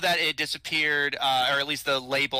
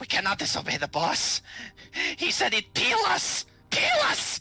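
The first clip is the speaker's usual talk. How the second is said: frightened, fearful gurgle of a voice; 9 semitones higher than usual. The fat one on the loot pile speaks up, in a gurgling, fearful voice. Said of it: "speaks up with a kind of gurgling, fearful voice".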